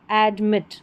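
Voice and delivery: एडमिट with the weight on मिट; stress on मिट. Shown as a demonstration. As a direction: lean on the last syllable मिट of एडमिट. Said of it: "ज़ोर देकर बोला जा रहा है". (एडमिट में मिट पर ज़ोर)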